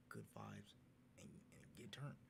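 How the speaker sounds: whispered, hushed and sneaky; conspiratorial whisper. Retold or imitated. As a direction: let it slip like a secret plan. Friends planning a night out.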